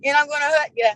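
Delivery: lightly put-on Geordie accent; a hint of mock Geordie; imitated Geordie accent. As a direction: mimic your rival's Geordie speech. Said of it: "But her saying".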